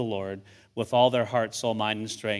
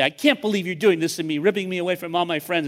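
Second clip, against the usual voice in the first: mildly hammed-up, higher-pitched teenage protest; imitated complaining kid; 5 semitones higher, faster than usual. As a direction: mimic an aggrieved kid, pitched up. Voices complaining kids, as contrast.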